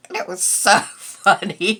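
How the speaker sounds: laughing through the words; fond amused laugh breaking in; real laugh. Real, not acted. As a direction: giggle as you say it. Laughing while remembering cat.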